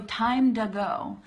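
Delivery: slow "time to go", D as in dog; D sound in "to". Shown as a demonstration. Teacher modeling the phrase for learners, D-sound demo. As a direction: say "time to go" with "to" as "duh". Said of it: "that's the same D as dog".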